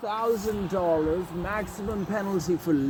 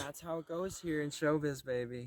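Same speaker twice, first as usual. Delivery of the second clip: sleazy showbiz voice; 11 dB quieter than usual. Acted.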